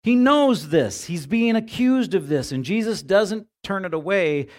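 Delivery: preacher's rising emphatic cry; emphatic preaching. Real, not acted. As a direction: drive it home with full force.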